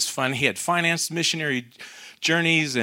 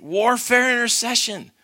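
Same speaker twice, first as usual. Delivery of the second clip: bold declaration; 9 semitones higher than usual. Retold or imitated. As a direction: announce it boldly with fire. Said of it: "she looks up with this fire in her eyes".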